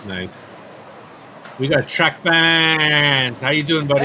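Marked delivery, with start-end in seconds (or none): 1.6-4.0 loud, slow put-on announcer voice; mock announcer. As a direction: ham up a big arena greeting. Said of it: "That was horrible".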